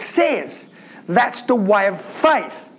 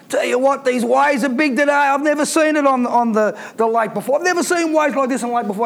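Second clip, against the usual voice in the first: worried fisherman chatter; faster than usual. Acted. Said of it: "He didn't talk like that".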